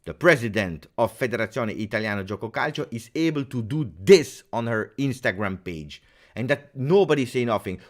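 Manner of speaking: loud, emphatic angry complaint; angry rant. Real, not acted. Complaining about the president's wife's Instagram post, angry. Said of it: "This is what makes you angry".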